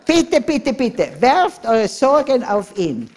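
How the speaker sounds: high, loud, slow pleading; urgent preacher's plea; pleading call. Real, not acted. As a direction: beg the congregation to cast their cares.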